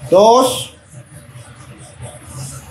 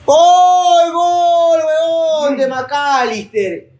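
breakneck goal commentary; 8 semitones higher, much slower than usual. Real, not acted. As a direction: yell the goal out as it goes in. Celebra gol de McAllister. (grito de gol)

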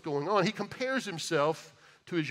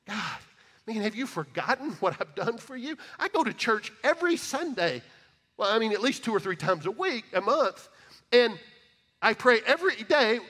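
self-righteous whining prayer; 3 semitones higher than usual. Retold or imitated. Believer grumbling to God about his unfair reward, mock aggrieved whine. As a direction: play the put-upon believer listing his deeds. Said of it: "we'll have these conversations with God and we'll go".

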